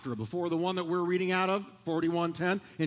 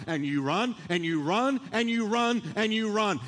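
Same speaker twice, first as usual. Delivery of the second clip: building repetition; 4 semitones higher than usual. Acted.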